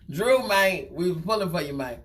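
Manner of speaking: lightly voiced Terrence Howard, laughing through it; a hint of a mournful Terrence Howard; loosely imitating Terrence Howard. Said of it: "In my, in my Terrence Howard voice".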